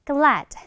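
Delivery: "glad" with the final d only lightly touched; weak final d. Shown as a demonstration. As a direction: model "glad" with a faint last d. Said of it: "이런 식으로 발음해주고요".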